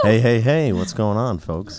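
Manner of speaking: lightly voiced baseball announcer; a hint of a ballpark announcer; radio voice. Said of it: "Radio voice".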